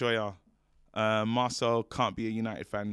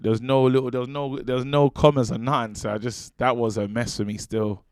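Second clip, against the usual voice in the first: loud, heated self-defence; defensive outburst; 9 dB louder than usual. Real, not acted. Reader excusing himself to co-host over a messy message, loud and defensive. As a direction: protest loudly over being cut down.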